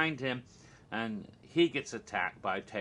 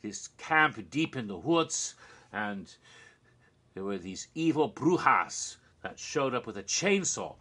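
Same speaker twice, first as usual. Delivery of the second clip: put-on Colombian accent. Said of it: "And Sofia saying".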